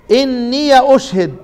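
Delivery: إني أشهد recited slowly with an open ya; Quranic recitation. Shown as a demonstration. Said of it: "زي ما أنا قرأت كده". (تلاوة إني أشهد بفتح الياء)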